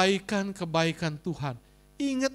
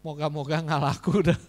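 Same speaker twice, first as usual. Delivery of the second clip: louder, teasing replay of his own wish; savoring the cheeky curse, louder; mock pious wish; 3 semitones lower, 4 dB louder than usual. Pastor mocking his own wish to the congregation, louder and teasing. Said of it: "Pendeta ngomongnya begitu".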